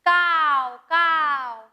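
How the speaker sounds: drawn-out, falling "kaav" caw; crow call. Shown as a demonstration. Teacher showing pupils how a crow calls, drawn-out caws. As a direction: imitate a crow cawing twice. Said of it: "कशा प्रकारे ओरडतो बरं".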